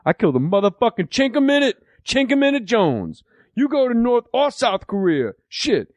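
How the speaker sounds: mock a boozy vet boasting, voice climbing high; imitating drunk Deacon. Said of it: "He goes".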